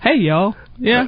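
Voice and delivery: a bright Southern "Hey, y'all". Shown as a demonstration. Guest from Georgia shows off her Southern greeting, a drawled "Hey, y'all". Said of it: "you're a good one in my book".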